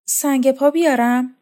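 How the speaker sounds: moaning. Acted. Laqa offering the pumice stone, moaning. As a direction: let the offer come out as a moan. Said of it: "با ناله گفت".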